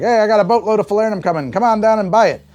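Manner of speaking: hyped-up sales pitch. Retold or imitated. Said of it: "importers took out, like, huge ads".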